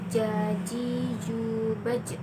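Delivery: "jaji, jubaj" with mid tongue touching the palate; touch mid tongue to palate for each j in "jaji, jubaj"; palatal j. Shown as a demonstration. Teacher giving examples of the letter Ja, palatal j. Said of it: "tengah lidah ke daerah langit-langit".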